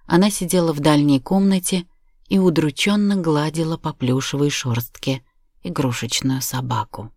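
ordinary delivery, nothing marked

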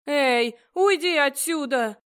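loud angry hiss at him; hissing angrily. A narrator's reading. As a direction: snap it out, fierce and loud. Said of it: "зашипела я на Дента".

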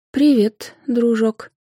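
high-pitched, drawn-out hello; greeting a little friend. A narrator's reading. Anfisa greeting her magic whip, fondly. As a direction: greet it like a new pet.

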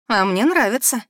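a touch shy, lightly voiced; embarrassed. A narrator's reading. Ninel confessing to her friend that she likes it, shyly. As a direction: admit it with mild embarrassment. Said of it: "смущённо произнесла Нинель".

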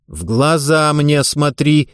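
slow, deliberate stern order; a coach's angry, measured command. Acted. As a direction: lay down the law, slowly. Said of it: "сердито и властно повторила".

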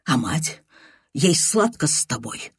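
plain reading voice

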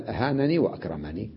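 أهانني وأكرمني with final ee; full forms. Shown as a demonstration. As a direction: sound the ee closing each word. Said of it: "بدل". (بإثبات الياء)

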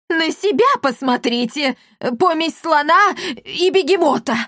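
shouted insult at the elder; angry retort. A narrator's reading. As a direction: hurl the insult back at him. Retort in a quarrel.

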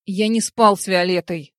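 loud angry bark; a man barking out his denial. A narrator's reading. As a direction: snap back to shut her down. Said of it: "рявкнул Дар".

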